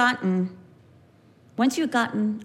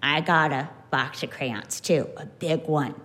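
put-on boastful kid; 8 semitones lower than usual. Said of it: "Marcus goes".

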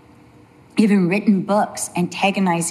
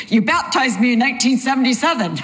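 retold punchline; 3 semitones higher, faster than usual. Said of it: "He goes".

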